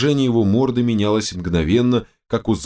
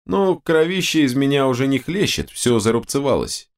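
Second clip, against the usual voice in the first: irritated; 7 semitones higher than usual. A narrator's reading. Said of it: "раздражённо отозвалась ведьмачка".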